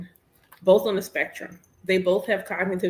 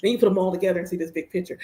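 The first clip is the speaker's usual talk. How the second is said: rushed repeat; 2 semitones lower, much faster than usual. Shown as a demonstration. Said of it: "repeats own point".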